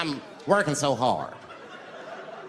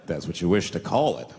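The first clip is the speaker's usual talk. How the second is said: put-on low calm old Indian man; 11 semitones lower than usual. Indian man voiced in stand-up story.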